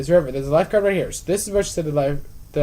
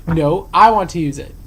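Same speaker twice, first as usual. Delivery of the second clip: disgruntled patron; 7 dB louder than usual. Retold or imitated. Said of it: "the disgruntled patron".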